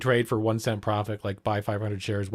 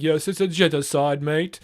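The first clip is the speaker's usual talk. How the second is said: mock Piers; 5 semitones higher, 6 dB louder than usual. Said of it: "to being like".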